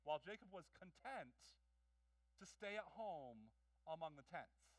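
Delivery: measured reading of the verse, slowed on the last phrase; read with phrasing. Shown as a demonstration. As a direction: lean into the phrasing of "among the tents". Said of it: "listen to the phrasing here".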